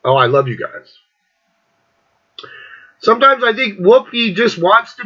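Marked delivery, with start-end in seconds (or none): 0.1-1.0 lower, sugary fake affection; mock loving farewell; mock sweet. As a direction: gush like a sudden turnaround. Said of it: "ran the fucking gamut of fucking emotions".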